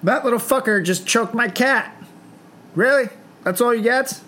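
outraged disbelief. Retold or imitated. Parent reacting to the cat choker, high indignant outburst. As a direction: shriek it like you can't believe it. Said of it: "It's like".

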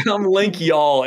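imitating a friend's Southern drawl; teasing mock Southern accent. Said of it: "you have this Southern accent".

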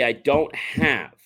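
I don't have, drawn out slowly word by word; slow, deliberate demo. Shown as a demonstration. Coach showing a guest how to say it, slow and deliberate. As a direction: say "I don't have" slowly and firmly, stopping after have. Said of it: "You say".

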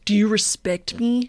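mock-serious founder tone; Elizabeth Holmes. Co-host testing her impression, throaty and self-important. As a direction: ask it in a throaty put-on voice. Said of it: "rest of the show in this tone".

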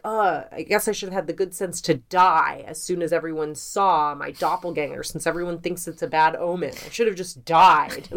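mock-sarcastic letter reading. Annoyed politician writing to the newspaper, lightly sarcastic. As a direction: voice his sarcastic complaint, lightly put on. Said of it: "writing a sarcastic letter".

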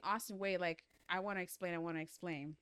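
quiet, defeated begging; understated pleading voice; pleading mother. Acted. Mother chasing daughter pleading.

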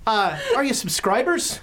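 a hint of a hearty newsman; jovial newspaper boss. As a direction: ask with showy, hopeful cheer. Game master plays Mickey greeting visitors.

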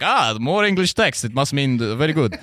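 lightly voiced gullible viewer; naive impressed viewer. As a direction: play a viewer who can't read English. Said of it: "They're just like".

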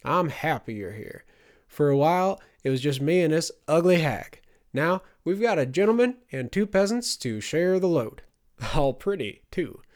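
put-on high, loud old man's voice; gleeful old man. A narrator's reading. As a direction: crow over the newcomers, mockingly.

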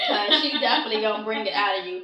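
a quick line broken by a laugh. Real, not acted. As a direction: laugh through the tease. Teasing about deep talks with Venus.

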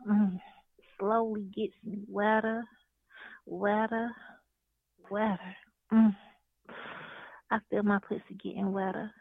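seductive spoken-word poem, moaning between lines; sultry voice. Acted. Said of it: "I gotta get in my sexy voice".

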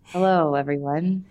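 slow, deliberately measured speech; exaggeratedly slow, hushed podcast delivery; very slow talking. Shown as a demonstration. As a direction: stretch it out like a careful slow-talk demo. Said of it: "talk very slow".

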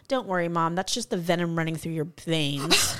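matter-of-fact son. Retold or imitated. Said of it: "He goes".

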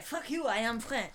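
slow, haughty French-accent put-on; mock French accent. Joking about the French way, mock French accent. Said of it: "that's the French way".

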